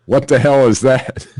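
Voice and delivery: put-on high, loud quote of a startled child; child's outcry. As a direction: blurt it out high like an alarmed kid. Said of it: "one of the children can be heard asking".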